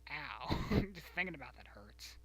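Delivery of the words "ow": mock ow. Real, not acted. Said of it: "I said".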